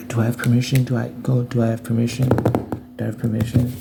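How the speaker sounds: high, mocking anxious voice; lightly voiced nervous asker. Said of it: "But you have to".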